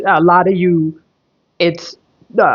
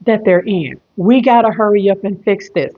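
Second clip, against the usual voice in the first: higher, hurried angel voices; urgent angels; 3 semitones higher than usual. Acted. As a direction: urge them to hurry, pitched up. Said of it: "they're like".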